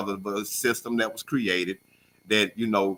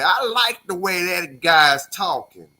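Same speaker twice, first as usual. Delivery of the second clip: higher, slower, lightly put-on white voice; mock racist white guy; 7 semitones higher, 5 dB louder, slower than usual. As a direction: voice an approving racist listener, drawn out. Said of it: "the most racist white people say".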